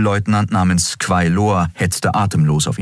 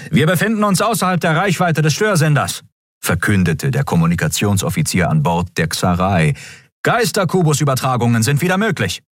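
high crisp announcement; officer report; 6 semitones higher than usual. Acted. Comms officer announces restored contact, high and crisp. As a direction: announce it briskly to the bridge.

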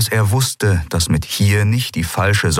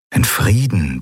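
ordinary delivery, nothing marked

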